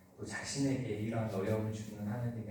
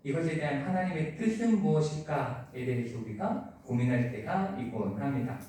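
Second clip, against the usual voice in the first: usual speaking voice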